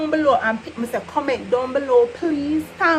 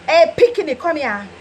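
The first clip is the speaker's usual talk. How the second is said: a hint of a sharp call; calling parent; 2 semitones higher than usual. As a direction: call the kid over. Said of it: "sound like verbal abuse".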